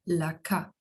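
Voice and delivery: "la K" said as the Spanish name of the letter; low, measured model of "la K". Shown as a demonstration. Teacher introducing the letter to learners, measured Spanish letter name. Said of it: "vamos começar com la K".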